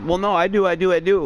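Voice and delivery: a flustered dad pushing back; defensive protest. Retold or imitated.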